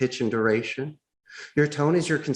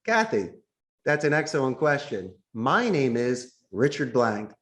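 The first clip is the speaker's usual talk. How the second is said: buffering reply; slower than usual. Shown as a demonstration. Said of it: "I buffer her negative tone".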